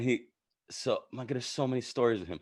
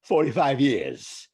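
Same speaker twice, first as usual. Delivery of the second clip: slow, measured Walken cadence; deliberate imitation of the actor; Walken impression; 4 dB louder, much slower than usual. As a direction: lay it out slowly like Walken. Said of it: "He was like".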